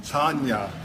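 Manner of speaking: Brooklyn accent. Real, not acted. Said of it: "hard with the Brooklyn accent to say that".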